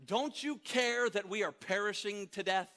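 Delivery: high, loud pleading, slowing on the repeat; desperate plea. Retold or imitated. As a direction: cry out for help over the storm. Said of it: "that verse in Mark chapter four says".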